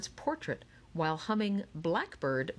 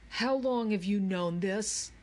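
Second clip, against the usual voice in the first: higher, mildly accusing demand; indignant question; 4 semitones higher, 3 dB louder than usual. Acted. Charles learns Andrew knew the code all along, indignant. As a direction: confront a partner who held out on you.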